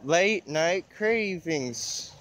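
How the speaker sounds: drawn-out commercial read; slow ad voice. Pretend. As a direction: say it like a food ad. Slow ad-style line.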